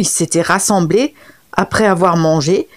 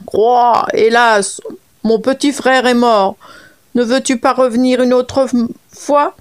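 lightly voiced frog, a little higher, lamenting; 4 semitones higher than usual. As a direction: play the mourning frog begging for time. Frog pleads a third time. (voix de grenouille légèrement plaintive)

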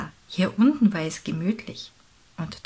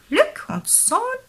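high, drawn-out, loud query; big pelican voice, pitched up; questioning pelican; 14 semitones higher, 5 dB louder, slower than usual. Acted. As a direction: repeat the names slowly as a puzzled question. Pelican puzzled over the names.

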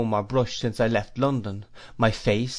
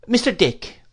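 put-on much higher, sharp old lady calling a name; brisk old aunt; 11 semitones higher, 4 dB louder than usual. A narrator's reading. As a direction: catch his attention at once. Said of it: "said my aunt".

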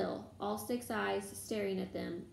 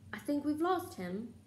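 panting; 6 semitones higher than usual. A narrator's reading. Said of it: "Harry panted".

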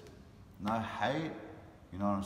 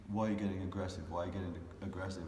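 retold objection; faster than usual. Imitates the man's repeated objection.

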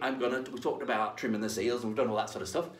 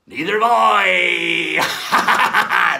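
laughing; 5 semitones higher, 11 dB louder, much slower than usual. Real, not acted. Punchline on pirate jokes.

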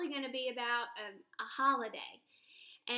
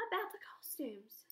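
whisper; 6 dB quieter than usual. Acted. Hamster's dreamy wondering.

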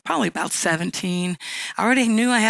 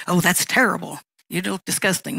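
harsh put-down; 3 dB louder than usual. Shown as a demonstration. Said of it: "don't say those kind of things".

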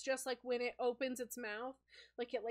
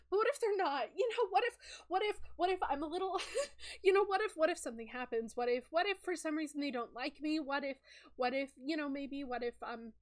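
high, loud anxious rush; nervous spider fretting about meeting a friend; panicked worrying; 4 semitones higher, 4 dB louder than usual. Acted. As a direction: spiral into nervous what-ifs. Sky panics aloud.

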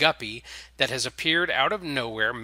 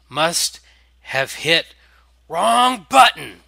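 loud, slow, rising much higher; flustered vampire; 4 semitones higher, 9 dB louder, slower than usual. A narrator's reading. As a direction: blurt it mid-spin, hammed up. Vampire spinning out of control.

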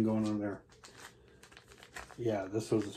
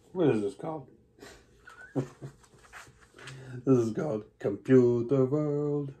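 put-on German accent; 3 semitones higher than usual. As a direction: put on a jokey German accent for the album title. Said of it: "sorry about my German accent there".

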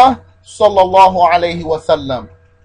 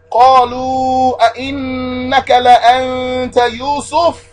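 emphatic astonishment; 4 semitones higher, much faster than usual. Acted. Teacher reciting Joseph's brothers recognizing him, astonished. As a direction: stretch the long vowels in amazed emphasis. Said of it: "they were so surprised".

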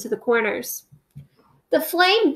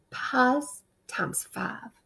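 slow whispered spell, Pies times five breathed out; 9 dB quieter, much slower than usual. Acted. Peter secretly trying the spell, whispering. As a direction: whisper the magic words secretly. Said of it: "and whispered".

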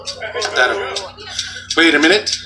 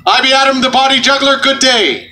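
mock pirate; 5 semitones higher than usual. Juggler introducing himself to the crowd, mock pirate. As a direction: introduce yourself like a stage pirate. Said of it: "pirate intro with "I be".

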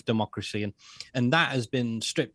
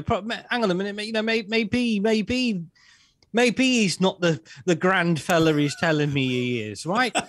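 voiced higher, hesitant and unsure; higher wavering voice of someone doubting an abuser; mock doubting victim; 5 semitones higher than usual. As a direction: play the victim starting to doubt him. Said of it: "maybe that fourth or fifth punch".

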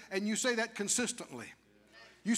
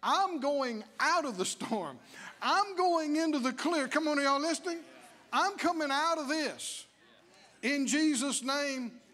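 bold confession; 3 semitones higher than usual. Shown as a demonstration. Preacher showing the congregation a bold confession. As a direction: say it like you believe it. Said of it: "You could begin to say something else".

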